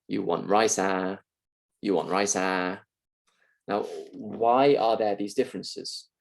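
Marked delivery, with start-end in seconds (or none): 0.1-1.2 Singaporean English. Shown as a demonstration. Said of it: "in Singaporean English, we get this instead". 1.8-2.8 Singaporean English. Shown as a demonstration. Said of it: "in Singaporean English, we get this instead".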